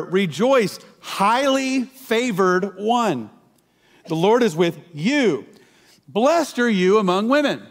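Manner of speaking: slow, stately reading with "highly favored" drawn out; solemn scripture reading. Shown as a demonstration. Preacher reads the angel's greeting to the congregation, slow and solemn. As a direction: read the angel's words with weight. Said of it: "let me just read in a different version".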